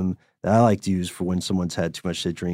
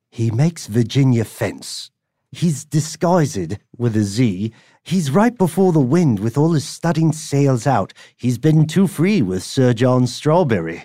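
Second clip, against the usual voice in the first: put-on different English accent. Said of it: "I'll do a different English accent".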